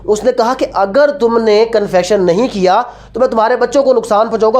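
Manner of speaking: ordinary talk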